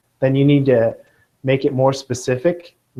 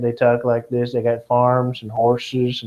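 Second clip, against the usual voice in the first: slow, drawled southern Kentucky accent; lightly played deep Southern drawl; 3 semitones lower than usual. Shown as a demonstration. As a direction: show the class how Kentucky folks talk, drawn out. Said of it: "talk like this with a deep southern accent".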